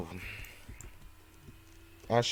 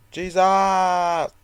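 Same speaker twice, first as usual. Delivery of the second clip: startled; 8 semitones higher, 10 dB louder, much slower than usual. Real, not acted. Startled reaction while playing.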